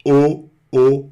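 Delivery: O, O with lips rounded like an egg in the mouth; O, rounded demo; rounded O shape. Shown as a demonstration. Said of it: "é como se fosse um ovo na boca".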